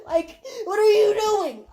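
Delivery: tearful prayer to God; pleading with God. Retold or imitated. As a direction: cry out to God. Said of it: "And I'm like".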